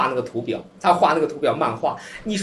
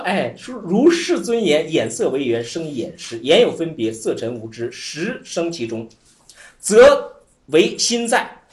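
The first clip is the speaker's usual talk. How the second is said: slow, measured sutra recitation; recited scripture; 3 semitones lower, slower than usual. Acted. Teacher reciting the sutra to students, slow and measured. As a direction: intone the classical lines slowly, then let them fade.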